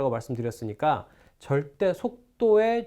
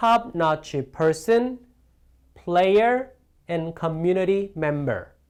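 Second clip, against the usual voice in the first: list tune, rise on person, player, fall on member; 3 dB louder than usual. Repeating a list sentence for intonation practice: rise on person and player, fall on member. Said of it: "억양을 올리고 올리고 내려주는".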